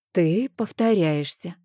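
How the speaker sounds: slow, even and unruffled; calm reply. Acted. Amanda calmly cuts off Rein's shouting, slow and even. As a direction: answer coolly, in no hurry. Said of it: "спокойно ответила я".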